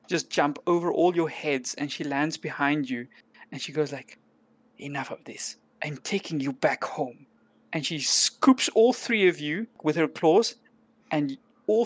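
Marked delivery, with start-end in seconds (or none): 4.8-7.3 soft, firm and commanding; quiet firm voice. Acted. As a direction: settle it quietly and firmly. Cat rescuer voiced by GM.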